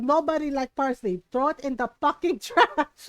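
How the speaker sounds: mock motherly disgust, breaking into a laugh; emphatic mom. Mom dismissing parsley to her child, emphatic. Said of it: "She's like".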